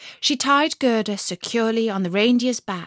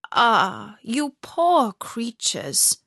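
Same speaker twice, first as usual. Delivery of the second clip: put-on old Lapland woman voice; much slower than usual. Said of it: "said the Lapland woman".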